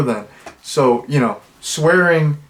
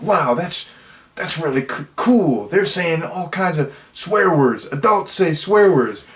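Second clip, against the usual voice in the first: put-on slow, higher, awed kid voice; a lightly voiced impressed young boy, slowed down; eleven-year-old self; 4 semitones higher than usual. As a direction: gush like a kid hearing swears for the first time. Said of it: "when I was eleven".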